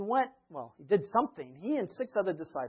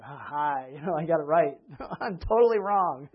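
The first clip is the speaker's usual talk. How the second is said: laughing through the words; laughing Peter; 8 dB louder than usual. Retold or imitated. Peter flip-flopping about being right, laughing. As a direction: giggle it out, half sheepish.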